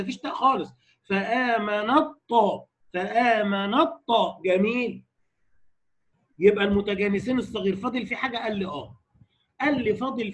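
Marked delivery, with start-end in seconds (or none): 1.1-4.4 الطاء with full emphatic velarized ṭ; slow emphatic recitation. Shown as a demonstration. Teacher showing full emphatic ṭa, slowly. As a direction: hold الطاء heavy, slowly. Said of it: "بالإطباق بتاعها والتفخيم كده،".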